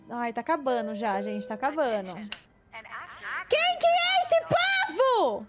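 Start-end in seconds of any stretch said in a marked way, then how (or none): 3.5-5.5 very high, loud shocked question; shocked surprise. Real, not acted. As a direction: shriek out who these people are. Strangers in the film set.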